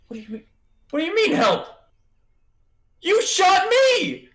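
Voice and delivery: wounded man yelling at the shooter; outraged yell. Acted.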